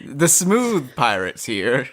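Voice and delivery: slow, smooth pirate voice. Pretend. Co-host introducing the smooth pirates, slow smooth voice. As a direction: glide through it slowly. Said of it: "smooth voices".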